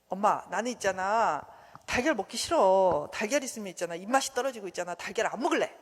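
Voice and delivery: lightly voiced child grumbling to mom; mock reluctant kid complaint; whining child. Voices a child refusing eggs.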